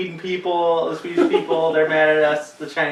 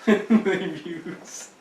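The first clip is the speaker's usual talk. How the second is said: very drawn-out, higher echo; stretched-out teasing imitation; mimicking mock awe; 4 semitones higher, much slower than usual. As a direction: parrot it back slowly in mock wonder. Listener echoes the put-on line.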